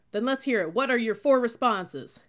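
loud, high drill-sergeant demand; shouted demand. A narrator's reading. Cadet drilling recruits on responses, shouting. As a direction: demand it from the whole squad.

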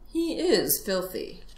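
slow, considering fox; mildly reflective remark; musing to himself. Acted. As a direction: weigh it up privately. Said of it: "the fox said to himself".

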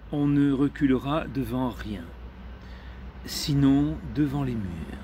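measured poetry reading with long pauses between phrases; deliberate recital of poetic prose; literary reading. Acted. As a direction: read it out phrase by phrase, letting each pause hang. Reads a literary text aloud.

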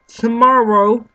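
high, loud, rising; cheery sign-off. Real, not acted. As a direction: lift it up like a friendly goodbye. Sign-off outro.

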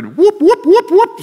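high, loud whoop through laughter; mock the Stooges' whoop, laughing. Preacher mimics the Stooge's whoop for the congregation, laughing.

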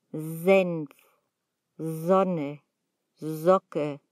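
Senf, Sonne, Socke opened with a soft buzzed "z". Shown as a demonstration. Teacher giving examples of soft German S, "z" onset in Senf, Sonne, Socke. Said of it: "La S se pronuncia suave".

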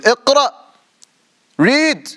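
high-pitched, forceful command; imperious angel ordering a recitation; angel's command. Acted. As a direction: call it out high and sharp, as an order. Acting angel's command to Prophet.

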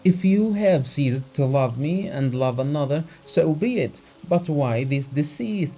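a touch of tears, pleading; hurt and reproachful, near tears; tearful voice. Acted. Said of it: "Abogin said in tearful voice".

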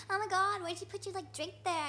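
imitating an indignant complaint; bitching at someone. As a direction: scold a stranger over a spilled drink. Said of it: "she's totally bitching at him".

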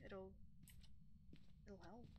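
holding back a burp; burpy. Real, not acted. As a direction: talk through a burp. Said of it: "I'm so burpy today".

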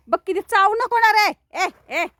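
high, loud scolding of a biting pup; scolding yell. Real, not acted. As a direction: tell it off sharply. Dog biting her. (चावणाऱ्या पिल्लाला उंच आवाजात रागावत)

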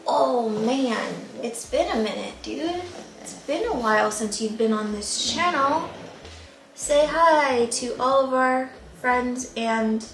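fond, sing-song chat to a dog; talking to dog. Real, not acted. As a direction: coax the dog to greet everyone. Cooing to the dog on camera.

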